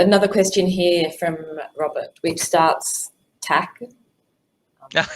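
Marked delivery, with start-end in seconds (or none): 3.4-3.8 "tac" said the Swedish way, like tack; a quick Swedish "tac" for thanks; Swedish accent. Shown as a demonstration. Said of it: "there's my, uh, Swedish accent for you".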